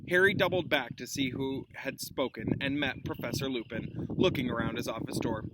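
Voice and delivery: lively read-aloud with character voices; animated children's story reading; story narration. A narrator's reading. Reading a novel to class.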